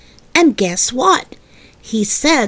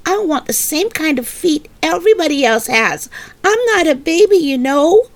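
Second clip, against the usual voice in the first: put-on higher, childish and stubborn; insistent little girl; 5 semitones higher than usual. Little girl insisting to her mother that she is not a baby, higher.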